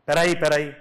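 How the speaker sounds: sudden loud retold yell to stop him; retold shout. Man yelling to stop the gunman, loud retold shout. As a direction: cry out to halt the man with the gun.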